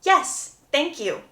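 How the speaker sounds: drawn-out, mocking yes thank you, pitch a little up; slow mock curt reply. Mimicking Hermione's stock answer to Gregory, slow and mocking. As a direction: stretch out "Yes, thank you," like a bored brush-off. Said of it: "Hermione cannot say".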